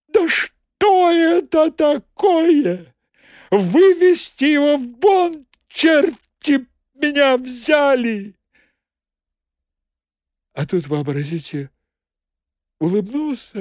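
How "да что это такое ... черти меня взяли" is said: high, loud, slow furious yell; furious shout. Retold or imitated. Prokhor throwing the visitor out, furious. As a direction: explode with rage. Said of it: "вскричал".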